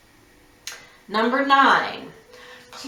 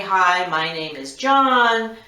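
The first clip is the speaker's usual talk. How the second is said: professional caller. Shown as a demonstration. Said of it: "be professional and say".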